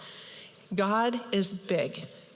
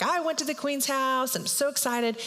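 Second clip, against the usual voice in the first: higher-pitched mock boast; excited bragging; 5 semitones higher than usual. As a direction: imitate an excited man showing off. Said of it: "he's feeling good".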